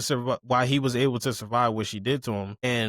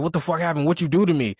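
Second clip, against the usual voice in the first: raised, higher mock-furious demand; retold angry yell; 5 semitones higher, 3 dB louder, faster than usual. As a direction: play the pissed-off guy bursting out. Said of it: "Buddy was pissed".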